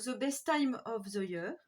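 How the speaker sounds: reading an English title in a French accent, slowly. Real, not acted. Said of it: "Désolée pour, euh, l'accent anglais". (anglais avec un accent français, lentement)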